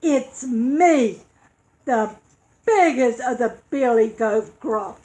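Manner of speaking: loud, firm goat voice; big, strong voice. Acted. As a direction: stand your ground with a booming voice. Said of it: "in a big, strong voice".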